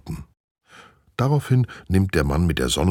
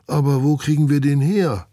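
puzzled schoolboy; 9 semitones higher, 4 dB louder than usual. Acted. Voices Olaf asking friends.

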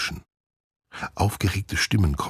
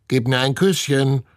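croaking parrot voice; 10 semitones higher, 5 dB louder than usual. A narrator's reading. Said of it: "krächzt Herr Klodwig".

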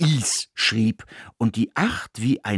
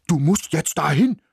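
higher, urgent barked order; 6 semitones higher, 3 dB louder than usual. A narrator's reading. Ismir urges the mouse to go, barking. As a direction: bark the command at the mouse. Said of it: "bellte er".

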